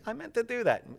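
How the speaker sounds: lightly imitated comic boast, pitched high; high-pitched mock nonchalance; Pee Wee Herman. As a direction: brush off the fall as planned. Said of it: "love the Pee Wee Herman".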